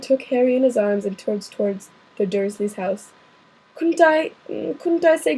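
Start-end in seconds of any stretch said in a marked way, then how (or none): 3.8-5.4 "Couldn't I" pitched up like McGonagall; higher, thinner voice by mistake; the wrong character's voice for Hagrid. Acted. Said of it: "said Ha-, er".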